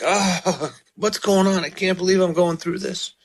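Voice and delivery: mock despairing psalmist with a laugh; imitating the psalmist. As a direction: play the weary psalmist in disbelief. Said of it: "He's like".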